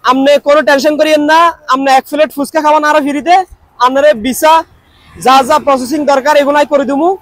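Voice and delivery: chatting on in a lightly put-on Noakhali dialect. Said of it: "Noakhali ভাষা বুঝেন নাকি".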